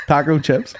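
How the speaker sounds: breathy whisper; whispered punchline. Real, not acted. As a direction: whisper it aside. Whispered joke.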